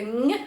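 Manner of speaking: «н» pressed with the back of the tongue to the palate, nasal; Spanish ñ sound. Shown as a demonstration. Teacher demonstrates the nasal Spanish ñ for students. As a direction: hum «н» through the nose like a blocked nose. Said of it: "і тоді виходить".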